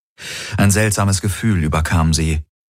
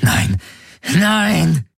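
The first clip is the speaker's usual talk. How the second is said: much higher anguished cry; cry of despair; 12 semitones higher than usual. Acted. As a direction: cry out against it. Kirai cries out.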